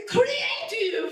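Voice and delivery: put-on loud, high "creative!" in a heavy Italian accent; grandma belting "creative!" as if it were Italian. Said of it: "saying them with this super heavy Italian accent".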